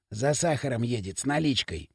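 soft, hushed "Экспедитор с КамАЗа"; whispered aside. Acted. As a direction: drop your voice to tip off a friend. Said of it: "шепнул Примус Лысому".

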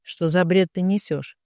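usual speaking voice

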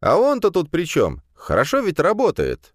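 put-on high, abashed young voice; a flustered young man playing innocent; embarrassed student. A narrator's reading. Embarrassed student asks the rector why the violinist statue matters. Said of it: "смутился Вешкин".

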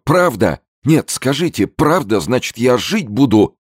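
the frightened businessman begs to be reassured; desperate hopeful businessman. A narrator's reading. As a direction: clutch at the hope of living. Zeldin's relief after threat.

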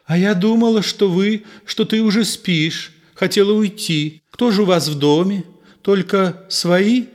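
put-on high, light young girl's voice; a girl calling shyly from behind the door. Ninochka asking through the door, high and girlish.

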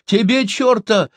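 high, loud, slow retort; loud mocking shout; crowd shouting back. A narrator's reading. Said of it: "закричали из толпы".

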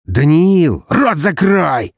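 high, loud slow bark. Acted. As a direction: bark the order sharply. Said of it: "рявкнул младший Волков".

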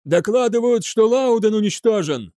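high, urgent cry; shouted report. A narrator's reading. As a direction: call the loss out across the bridge. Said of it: "закричал другой". (кричит, докладывая)

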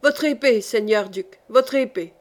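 a mild yell, demanding the sword. Acted. Savoisy demands the duke's sword, mild yell. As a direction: call for his sword, half-shouting. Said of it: "en hurlant".

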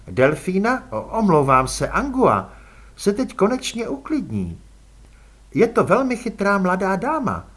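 polite, cool vampire aristocrat offering a ride; elegant vampire lady. Acted. Margolota's long speech to Elánius.

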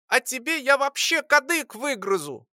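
high squeaky furious voice; tiny angry attack. A narrator's reading. Lora lunging at the alchemist, high furious squeak. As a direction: pounce on him with a squeak. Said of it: "накинулась на алхимика Лора".

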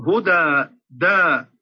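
هدى with the jaw opened wide on the long a; open fatḥ vowel. Shown as a demonstration. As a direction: open the mouth on the final a of هدى. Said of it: "ينطقها بالفتح فيقول هدى".

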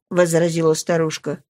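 usual speaking voice

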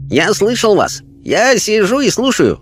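high, placid voice of a wise spirit; Chinese spirit voice. A narrator's reading. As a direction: speak as a calm, otherworldly Chinese sage. Spirit Chang speaks.

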